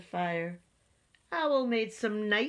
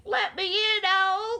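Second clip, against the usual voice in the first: high, loud frantic rabbit voice; crying out; 12 semitones higher, 6 dB louder than usual. A narrator's reading. Rabbit outside Owl's door in the storm, crying out. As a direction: call out high and urgent to be let in. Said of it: "cried Rabbit".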